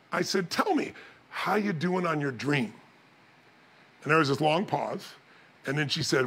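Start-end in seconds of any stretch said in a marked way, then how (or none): 0.5-2.7 slow, softly put fatherly question; casual ask. Retold or imitated. Dad sitting with daughter asks about her dream, casual ask. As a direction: ease into the question, unhurried.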